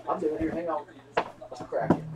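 breathy whisper, no voice at all; whispering to himself. Real, not acted. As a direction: hush it like a secret. Whispers before opening the box.

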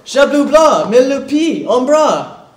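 high loud frantic begging; desperate pleading. Acted. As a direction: plead loudly, clinging on. Student begs teacher to stay.

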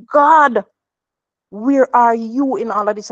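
an anguished cry to heaven; mother retelling her desperate prayer, cries out God. Retold or imitated.

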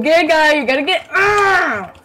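startled yell. Real, not acted. Caught by friend, yelling.

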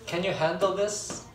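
"Can you handle this?" stretched very slowly. Shown as a demonstration. Teacher repeats the question slowly for students. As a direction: say it slowly again. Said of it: "알겠니, 이제?".

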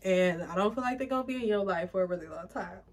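said through real tears; real teary repeat of the reading; crying. Real, not acted. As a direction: hold the line together while crying. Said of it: "I'm really crying on camera".

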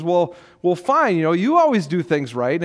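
mildly acted sarcastic comeback; imitating a defensive husband's sarcasm. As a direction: toss back a hurt, mock concession. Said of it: "he s-, uses sarcasm".

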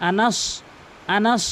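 আনাস with a dark, rounded last vowel; rounded anas. Shown as a demonstration. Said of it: "মুখটা একটু গোলাকার হবে".

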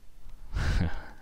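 short, quiet, breath-only laugh; amused chuckle. Real, not acted. Presenter amused by a mad example he skipped, quiet chuckle. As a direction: let out a small soft chuckle to yourself. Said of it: "I'm just laughing".

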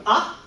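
short rising surprised Ah; rising second tone. Shown as a demonstration. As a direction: ask it like a surprised huh. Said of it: "being surprised".

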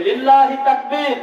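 slow, rallying call for a response; takbir call. Real, not acted. Preacher has the crowd repeat the phrase, rallying call. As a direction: call out the takbir, drawing out each word. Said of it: "এই শব্দটা আবার উচ্চারণ করি".

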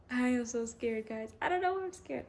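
high-pitched, excited fluster; scared-but-thrilled, pitch jumping up; nervous excitement. Real, not acted. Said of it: "I'm just excited".

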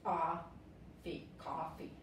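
COFFEE broken into "a" and "fi", then whole; coffee por sílabas. Shown as a demonstration. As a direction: sound out coffee with an open "a" and "fi". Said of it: "Se pronuncia". (pronunciar coffee por partes: "a", "fi")

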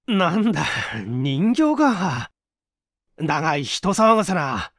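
sheepish relief. Acted. Relieved, embarrassed hero.

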